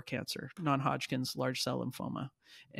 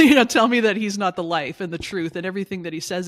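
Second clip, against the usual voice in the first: loud, high, laughing outburst of faith; real passion breaking through with a laugh; fired up; 4 semitones higher, 13 dB louder than usual. Real, not acted. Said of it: "got me fired up there".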